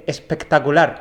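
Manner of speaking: "espectacular" suddenly articulated with great care; carefully craft every syllable of "espectacular"; overworked single word. Retold or imitated. Imitating a TV contestant, "espectacular" painstakingly pronounced. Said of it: "una palabra puntual se la curraba muchísimo".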